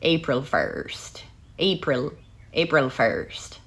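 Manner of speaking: slow, careful practice of an Irish accent; Irish accent attempt. Shown as a demonstration. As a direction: stretch the words in an Irish accent. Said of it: "Hoping to perfect my accent".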